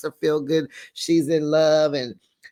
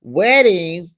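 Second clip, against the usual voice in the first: mock horror; 7 dB louder, much slower than usual. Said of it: "I'm like".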